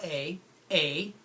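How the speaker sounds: a drawn out and repeated; stretched syllable. Shown as a demonstration. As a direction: stretch the a for kids. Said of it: "we'll stretch out the two syllables".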